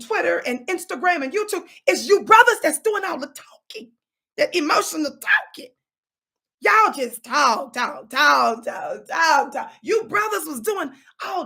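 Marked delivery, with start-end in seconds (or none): 1.9-5.7 loud accusation. Real, not acted. Accusing the brothers. 6.6-9.7 slow, loud hammering of each "talk"; drawn-out, louder "talk, talk, talk" mocking the gossipers; emphatic repeated talk. Real, not acted.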